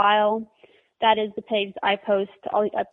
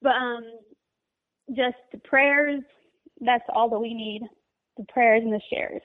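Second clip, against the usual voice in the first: teary-eyed. Real, not acted. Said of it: "I'm kinda getting teary-eyed".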